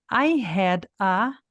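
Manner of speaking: I had a, said very slowly with had and a run together as one word; linked together. Shown as a demonstration. Teacher demonstrating linking to students, slow and careful. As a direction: link had into a smoothly, slow demo. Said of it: "aqui a gente vai falar junto".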